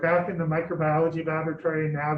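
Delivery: muffled behind a mask; through a face mask. Real, not acted. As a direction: talk through a surgical mask. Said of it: "we're talking through masks".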